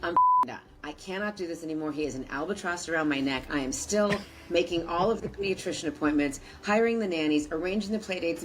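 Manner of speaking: mildly exasperated imitation of a client; retold fed-up wife. Breadwinner wife complaining about husband, lightly acted exasperation. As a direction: list grievances with a touch of acted exasperation. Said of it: "working women who come in and say".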